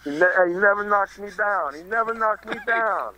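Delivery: a hint of the movie fighter; acted movie boxer. Trading the same Raging Bull line.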